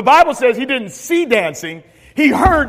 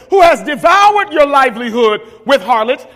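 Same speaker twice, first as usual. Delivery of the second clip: resentful accusation; 4 dB louder than usual. Acted. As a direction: spit out harlots with jealous contempt. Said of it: "now watch what he says".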